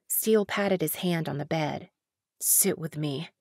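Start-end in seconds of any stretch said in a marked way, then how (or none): 2.4-3.3 faint, lower and softer; barely able to push the words out; injured man's quiet request; weak. Acted. Injured man asks weakly.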